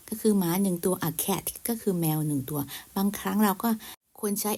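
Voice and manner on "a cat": "a" in "a cat" said as a short "uh"; article as "uh". Shown as a demonstration. Teacher giving a second example, "a" said as "uh". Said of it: "ออกเสียงเป็นอะมากกว่า A".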